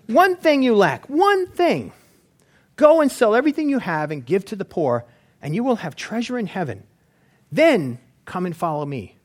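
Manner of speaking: a hint of a solemn Jesus; lightly voiced Jesus; voicing Jesus. Jesus speaking to rich man.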